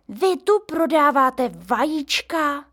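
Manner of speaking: the neighbour pulling up short; taken aback. A narrator's reading. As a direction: stop short, wary of a trap. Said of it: "zarazila se".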